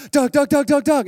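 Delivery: high, loud calls of his name; a wife calling her husband out to see bananas, eager shout; excited calling out. Retold or imitated. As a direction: call him excitedly across the yard. Wife calling him at dawn.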